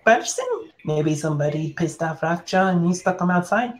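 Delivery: the GM slips into a lightly voiced creature explaining things; NPC creature voice.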